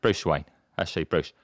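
low slurred movie voice, popping up on a name; guy from Batman. Acted. Batman character asking Bruce Wayne his order, low slurred voice. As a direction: address Bruce in a low put-on voice. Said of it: "the guy from Batman".

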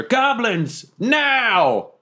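high-pitched call to troops; yelled command. Acted. Player summons the goblins, yelling over a shoulder. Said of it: "I also yell over my shoulder".

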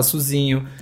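"sozinho" with closed O, "suzinho"; Minas pronunciation. Shown as a demonstration. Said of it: "o O e o E são muito fechados".

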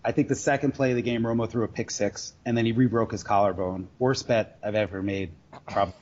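ordinary talk, nothing marked

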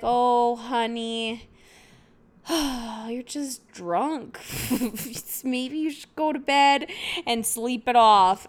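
soothing, slow, amused dad; calm a crying daughter with a sigh; gentle dad. Retold or imitated. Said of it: "playing good cop".

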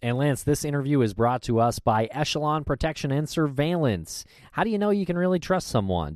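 polished sponsor read. Acted. Host reads the sponsor message to listeners, ad read. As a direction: pitch it like a radio spot.

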